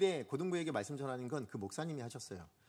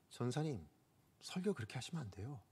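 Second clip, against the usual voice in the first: retold teacher's rebuke; 6 dB quieter than usual. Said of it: "이렇게 얘기하시는 거예요".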